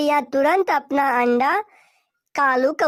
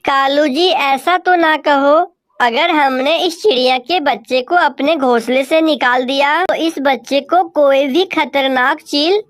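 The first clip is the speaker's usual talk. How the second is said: louder wife crow begging her husband; Gori crow pleading; 11 dB louder than usual. Acted. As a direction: plead for the chick, loud and earnest. Narrator voices Gori crow. (गिड़गिड़ाती कौवी की ज़ोरदार आवाज़)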